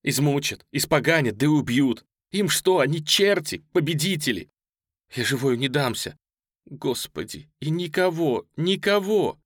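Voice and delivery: high, loud, despairing cry; panicked wail. A narrator's reading. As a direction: wail in terror of the enemy. Panicked woman among abandoned refugees. (отчаянный крик)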